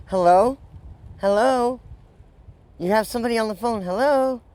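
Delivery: acting out trying to be heard on an open line; calling for attention. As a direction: call out "hello?" to someone not listening. Re-enacts calling to inattentive agent.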